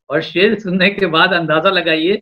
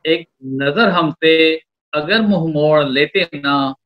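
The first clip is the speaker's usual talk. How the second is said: romantic shayari. Acted. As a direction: draw out each line of the couplet. Poet recites a love couplet.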